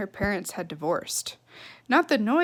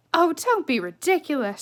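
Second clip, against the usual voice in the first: higher, dismissive mother; 5 semitones higher than usual. Acted. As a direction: brush it off.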